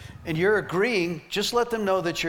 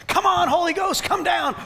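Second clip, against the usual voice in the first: high, loud, fired-up call to the Holy Ghost; enthusiastic shout; 13 semitones higher, 5 dB louder than usual. Retold or imitated. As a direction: whip the crowd up, calling heaven down. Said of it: "I was so enthusiastic".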